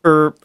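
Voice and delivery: short mouth-made horn blast; horn imitation. Imitating the horn in the team's post, abrupt honk. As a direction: mimic a horn cutting in. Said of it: "And then the horn".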